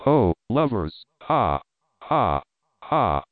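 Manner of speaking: cackling ha ha ha, loud; loud witch cackle. Acted. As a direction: laugh long and loud like a witch. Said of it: "the witch laughed so loud".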